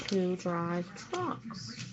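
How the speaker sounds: normal talking voice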